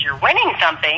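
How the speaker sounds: retold puzzled question, lifted on "winning something"; incredulous echo. Rotarian echoes her claim in disbelief.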